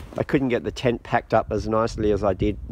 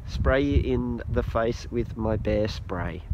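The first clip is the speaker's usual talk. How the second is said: quiet slow repeat; 5 dB quieter, slower than usual. Shown as a demonstration. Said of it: "I think that's what I said".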